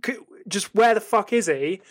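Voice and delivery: mildly worked-up mock rant; exasperated complaint, lightly acted; fuming. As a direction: act out a touch of fury. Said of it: "And then you're fuming".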